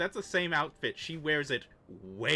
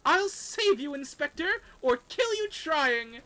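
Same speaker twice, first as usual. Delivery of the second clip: high heroic shout; 6 dB louder than usual. Acted. NPC heroic high cry.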